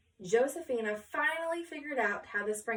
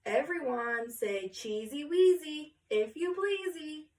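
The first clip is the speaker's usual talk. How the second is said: photographer ordering; 5 semitones higher than usual. Acted. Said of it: "then ordered".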